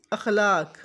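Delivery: अखलाक with open a on alif, akh-laq; अखलाक not ikhlaq; correct akhlaq. Shown as a demonstration. Teacher modelling the correct अखलाक. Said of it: "अलिफ के नीचे ज़ेर लगाकर बोलते हैं".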